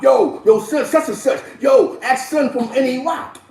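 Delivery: high, loud, hyped-up shout-out; imitating hyped jail talk. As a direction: mimic dudes bigging up their block. Jail dudes hyping their neighborhood.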